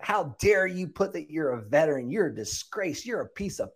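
high mock tirade climbing into squeaky babble; hammed-up scolding in a high voice, not shouted; pissed-off lady. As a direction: imitate an outraged woman ranting, pitch rising steeply. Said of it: "'cause she was pissed".

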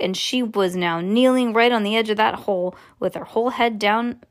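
plain reading voice

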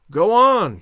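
loud excited cry; cried out. A narrator's reading. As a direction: call it out with glee. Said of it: "cried my military friend".

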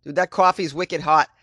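lightly put-on Boston accent with a mild mock yell; a hint of a Boston accent. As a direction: play a mouthy Boston guy ribbing his buddy. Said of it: "I'm like".

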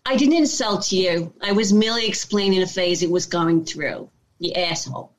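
tough-talking New York character; Italian-American New Yorker giving someone lip; New York accent. Shown as a demonstration. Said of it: "I also do a New York, New York accent".

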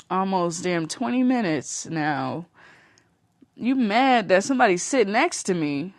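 mock-outraged friend snapping back at a nosy acquaintance; sassy retold clapback. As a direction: put her in her place, incredulous.

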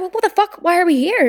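high-pitched retold exasperation; exasperated outburst. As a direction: act out disbelief at your useless companions. Acts out exasperation at friends.

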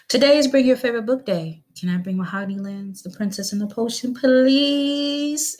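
put-on high pleading child voice; begging little girl. A narrator's reading. Little girl begging sister to bring her book. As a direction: beg like an eager kid. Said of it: "Ayanna begged".

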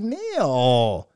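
long drawn-out name, swooping down; exasperated disbelief. Retold or imitated. Host objecting to his friend's post, in drawn-out exasperation. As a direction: stretch the name out in protest.

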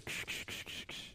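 imitating intro music. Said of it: "the intro music".

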